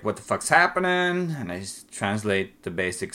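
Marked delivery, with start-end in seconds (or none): 0.0-1.4 much higher startled question; a boyfriend puzzled by the scene, higher voice; confused outburst. Retold or imitated. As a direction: blurt it out, baffled. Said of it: "starts like".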